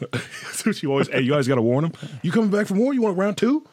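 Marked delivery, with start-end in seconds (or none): 2.2-3.6 taunting. Acted. Taunting opponent.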